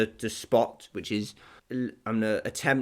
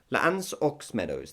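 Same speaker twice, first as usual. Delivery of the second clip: French name read in a plain English accent; French place name with English vowels; English-butchered French; 3 dB quieter than usual. Shown as a demonstration. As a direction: anglicise the French name completely. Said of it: "very English butchered".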